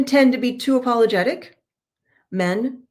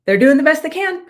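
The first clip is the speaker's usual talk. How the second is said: laughing quote; 7 semitones higher, 6 dB louder than usual. Retold or imitated. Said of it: "she's like".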